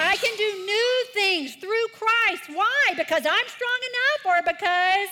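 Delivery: very high, loud verse lead; leading recitation. Shown as a demonstration. Pastor leading the kids' verse, very high and loud. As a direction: lift the energy of the room. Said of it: "So read them with me".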